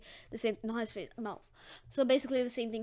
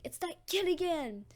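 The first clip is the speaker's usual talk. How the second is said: slime monster; 6 semitones higher than usual. Acted. Slime monster spots Deku.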